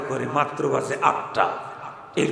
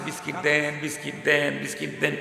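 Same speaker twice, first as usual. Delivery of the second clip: softer, mock-tearful child's plea; crying child; 6 dB quieter than usual. A beaten child cries to his mother for biscuits, softly tearful. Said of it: "কাঁদতেছে".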